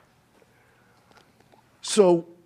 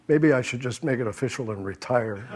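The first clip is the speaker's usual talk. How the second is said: laughing; 2 semitones lower, 5 dB quieter than usual. Real, not acted. Laughing at own joke.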